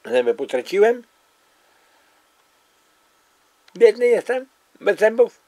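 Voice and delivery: toothless lisping speech; missing front teeth. Real, not acted. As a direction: speak without front teeth. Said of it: "Zębów nie mam".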